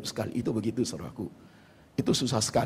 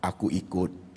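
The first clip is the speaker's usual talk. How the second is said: surrendered prayer; 3 semitones lower, 3 dB quieter than usual. Retold or imitated. Preacher's spirit answering God in prayer, quietly surrendered. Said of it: "manusia rohku yang merespon".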